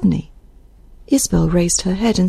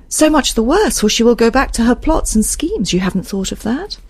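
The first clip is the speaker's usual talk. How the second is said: higher-pitched anxious character voice, challenging; a touch of raised, urgent dialogue; lightly voiced agitated Isabel; 5 semitones higher than usual. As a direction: press him with a worried warning.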